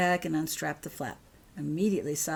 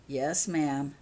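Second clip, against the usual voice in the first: glum; 2 semitones lower than usual. Acted. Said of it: "said Vernon glumly".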